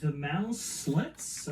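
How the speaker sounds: "Mouse Slits" said slowly as two separate words; mispronounced name. Real, not acted. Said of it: "that's not how you pronounce it".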